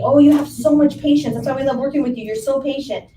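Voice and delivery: gushing clients. Retold or imitated. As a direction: gush like a grateful client. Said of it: "all my clients tell me".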